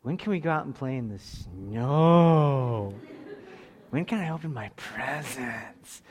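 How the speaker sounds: put-on slow, drawn-out kid's questions; eager little boy. Dad imitating his son begging about snow, drawn-out and eager. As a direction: stretch the words like a boy who loves snow. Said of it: "so he goes".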